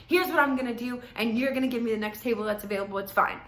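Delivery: mock-pushy customer voice; entitled attitude. Date telling hostess what she'll do, bossy. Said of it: "Like, that kind of attitude".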